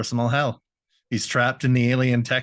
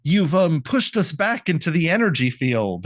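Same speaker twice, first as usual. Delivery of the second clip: panicked-villain quote; 4 semitones higher than usual. Acted. One ghost blames the other for the blast, hammed-up dismay. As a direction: scold the fool in a raised voice. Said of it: "One of them even says".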